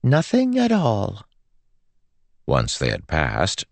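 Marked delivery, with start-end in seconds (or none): 0.0-1.3 slow, high, innocent singsong; perky. A narrator's reading. Girl assures Joel's mother all is well, perky. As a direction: draw it out perkily. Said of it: "Melody said perkily".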